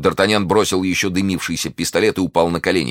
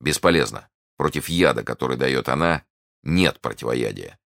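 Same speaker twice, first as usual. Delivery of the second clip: low, sinking voice; slowing to a low, bleak close; grim resignation; 4 semitones lower than usual. Acted. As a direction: pronounce it hopeless, trailing down. Friend declares the poison fatal.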